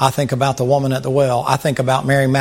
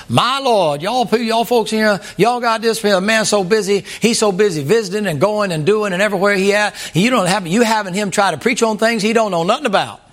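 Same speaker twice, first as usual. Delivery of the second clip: higher, slowed, preachy mock sermon voice; imitating an old preacher; 6 semitones higher than usual. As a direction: ham up the old preacher scolding the congregation. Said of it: "I heard an old black preacher say".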